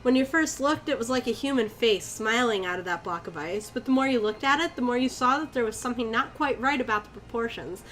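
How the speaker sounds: even first-person storytelling; story narration. A narrator's reading. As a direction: read it out as an eerie anecdote. Reads the story aloud.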